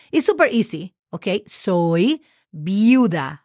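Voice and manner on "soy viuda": Soy viuda said very slowly, every vowel clear; slow demo pronunciation. Shown as a demonstration. Teacher slowly modeling Soy viuda for students. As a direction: stretch out viuda for the learners. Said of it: "V as in Victor".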